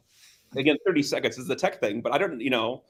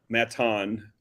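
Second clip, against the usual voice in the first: Matan in an imitated British accent; 3 semitones lower than usual. Co-host teasing the host over a guest's name, mock British accent. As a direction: say the name like a Brit. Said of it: "with your wonderful British accent".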